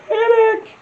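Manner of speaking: very high, slow, drawn-out shout of the name; delighted cry. Real, not acted. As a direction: stretch the name out in glee. Repeats name, laughing, delighted.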